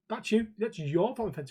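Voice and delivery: lightly imitated Asian comedian accent; Uncle Roger accent. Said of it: "the guy that does Uncle Roger".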